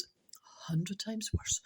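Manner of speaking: slow whispered comment; whispered aside. Real, not acted. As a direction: drop into a hushed aside.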